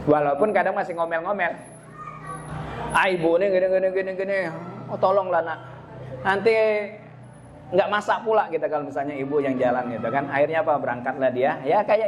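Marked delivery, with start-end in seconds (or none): 3.0-8.5 mock whiny muttering child; lightly voiced child complaining about mom's errand; grumbling kid. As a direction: grumble it like a kid who must go anyway.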